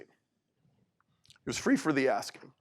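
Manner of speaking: slow and soft, let "free" sink in; slow soft repeat. Shown as a demonstration. Speaker repeats the gift gently to the audience, slow and soft. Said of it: "it, it was free for the asking".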